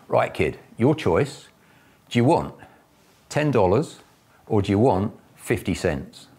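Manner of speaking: a barber putting on a show for a customer; barber teasing. Retold or imitated. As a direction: barber dangles two choices in front of the kid. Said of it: "the barber says".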